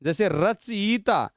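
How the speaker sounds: "रचयिता" drawn out slowly; slow careful pronunciation. Shown as a demonstration. Teacher giving the class an example, "रचयिता" slowly. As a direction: say "रचयिता" syllable by syllable. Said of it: "ये ध्यान रखना".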